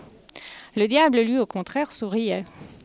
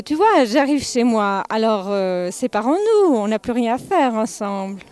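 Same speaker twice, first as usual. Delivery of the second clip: joyeux. Acted. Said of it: "d'un air joyeux".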